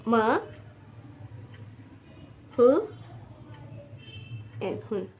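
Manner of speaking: मा, हु, एन spelled out with long pauses; syllable by syllable. Shown as a demonstration. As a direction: break the word into sounds. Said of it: "M लिखा जाता".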